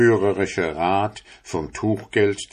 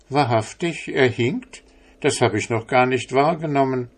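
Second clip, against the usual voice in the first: higher, quick amazed answer; a touch of naive astonishment; surprised tailor; 5 semitones higher than usual. Acted. Tailor answering the priest, mildly amazed and higher.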